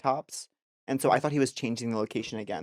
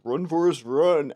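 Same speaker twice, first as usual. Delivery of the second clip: mock yell; 5 semitones higher, 6 dB louder, slower than usual. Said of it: "guys in a car being".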